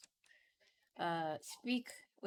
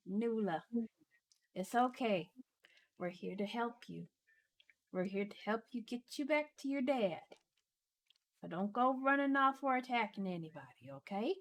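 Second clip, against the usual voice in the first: reassuring. Acted. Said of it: "She says".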